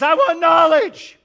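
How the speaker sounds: very high, loud, slow breathless plea; half-drowned man gasps his answer to his teacher; gasping for air. Acted. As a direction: fight for breath on every word. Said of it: "the guy's gasping for air again".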